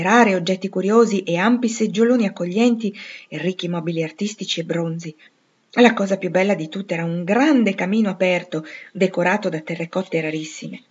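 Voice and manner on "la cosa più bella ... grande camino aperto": ordinary delivery, nothing marked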